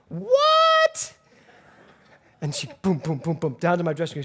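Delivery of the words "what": high, loud outraged "What?"; a huge shocked yelp of disbelief. Retold or imitated. Actress Dolores Gray yelling from the hallway, shocked. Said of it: "she goes".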